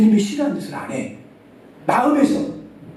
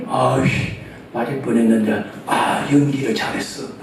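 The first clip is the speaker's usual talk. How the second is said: low, smug grumble, pleased with his acting; smug cursing mutter; 9 semitones lower, 4 dB quieter than usual. A child praising his own fake tears, lower and smug. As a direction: mutter it lower, self-satisfied. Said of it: "시자까지 써가면서".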